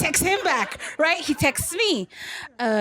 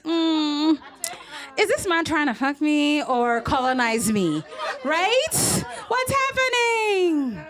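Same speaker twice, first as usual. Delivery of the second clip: rising into a high slow wail; mock disbelief; 5 semitones higher, slower than usual. Reacting to the French match's text, rising to a high wail. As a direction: escalate from puzzled to a high comic cry. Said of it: "And I was like".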